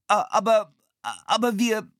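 frightened stammer, high and loud. A narrator's reading. Philipp stammers at the angry bird seller, frightened. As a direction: stumble over the words in panic. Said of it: "stammelte Philipp".

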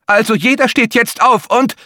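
high, strained attempt at calm; trying to hide the panic from kids; teacher trying to calmly tell children to get off; failing to sound calm. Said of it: "versuchte ruhig zu klingen und scheiterte kläglich".

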